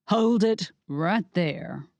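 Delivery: slow, deliberate threat; villain's slow command; menacing stop. Acted. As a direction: stop them cold, word by word. Becky Ray stops them.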